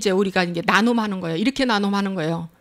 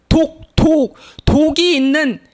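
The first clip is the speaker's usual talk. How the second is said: emphatic preaching; 4 semitones higher, 4 dB louder, slower than usual. Acted. Preacher stressing poison.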